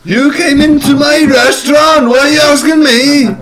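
high, exasperated yell; indignant shout. Acted. Shrek to a customer in his restaurant, indignant shouting.

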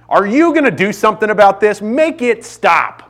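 high, imitated little boy's appeal; upset child pleading. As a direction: beg dad to step in, stretching the last words. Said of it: "That's what he asked me".

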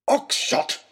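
high, loud warning; angry rebuke. Acted. Lord Daunt rebuking Oxshott, angry. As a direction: snap his name.

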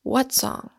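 sharp rise in pitch from exasperation; exasperated demand. A narrator's reading. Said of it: "demanded the exasperated Eames".

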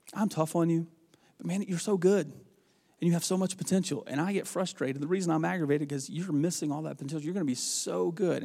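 softened, sincere praise; retold softly, building the player up; earnest encouragement. Coach telling a player he has so much potential, earnest.

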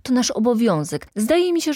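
high, eager salesman; brisk courteous patter; quick patter. A narrator's reading. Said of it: "mówił prędko Mraczewski".

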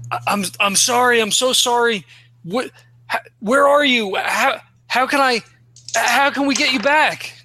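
mildly frantic, stammering apology; desperate pleading. Acted. Player as grieving man begs her to come back, desperate pleading.

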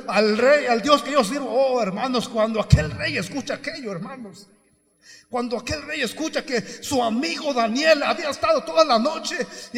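exultant pulpit storytelling, loud and high; fired-up preaching. Real, not acted. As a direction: preach it at full force. Preaching at full force.

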